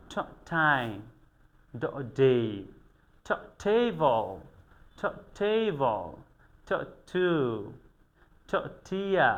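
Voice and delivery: ঠ before ঠিন, ঠেবল, ঠিয়া and ড before ডিন, ডিয়া, stretched slowly; drawn-out teacher modelling of ঠেবল; slow pronunciation drill. Shown as a demonstration. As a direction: sound ঠ alone, then ঠিন, slowly. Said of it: "যে যত সুন্দর করে উচ্চারণ করতে পারবে".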